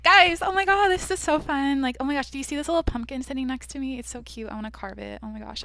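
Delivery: mock bubbly girl. Mocking a sunny podcaster she refuses to be. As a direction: play the overexcited happy podcaster. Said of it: "if I fucking talk like that".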